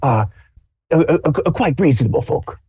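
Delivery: lightly voiced admiring old man; a hint of a pleased grandpa; old grandfather. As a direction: grandfather approving the young fellow. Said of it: "he's just like".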